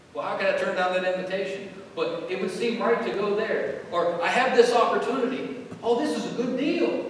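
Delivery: high, loud, keen rationalizing; acted eagerness of someone tempted by an offer; eager self-persuasion. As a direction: talk yourself into it, voice lifted and pushed. Voices a tempted believer's reasoning.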